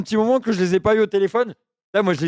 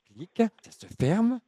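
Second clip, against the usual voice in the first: low, halting, lonely oddball; dopey confused voice; 7 semitones lower, 4 dB quieter than usual. Acted. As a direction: play a muddled lonely man rambling. Keeps confused caller character.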